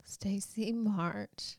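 slow whispered reproach; hushed scolding. Pretend. Cohost hears about skipped fast-forwarding, hushed mock scolding. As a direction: whisper the name as a mock telling-off.

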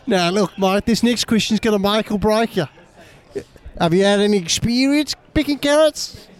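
put-on Australian accent. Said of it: "My Australian guy's".

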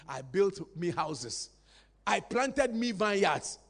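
me weighted in each line, slow; stress on me. Shown as a demonstration. Preacher reads Solomon, stressing me slowly. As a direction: lean on me, slow and deliberate. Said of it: "The emphasis on me".

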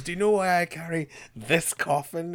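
a touch of theatrical grievance; mock emotional monologue. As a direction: lightly imitate a dramatic monologue. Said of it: "emotional monologue".

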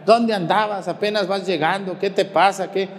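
mock scolding. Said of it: "la regañan".

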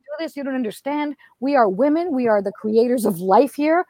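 rally the crowd like an inspirational speaker; retold rousing talk, earnest and emphatic; TED Talk. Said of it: "like, ted Talk where it was like".

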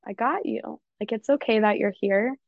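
put-on nurturing parent voice comforting a scared child; tender comforting. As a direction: comfort your inner four-year-old gently. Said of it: "I would be like".

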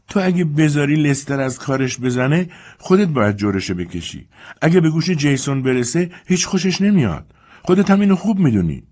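put-on high, peevish old lady voice; complaining mistress. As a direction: grumble from the bed upstairs. Mrs Compson's voice.

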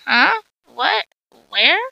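sudden mock bewilderment; hammed-up confusion; confused. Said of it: "we all said in confusion".

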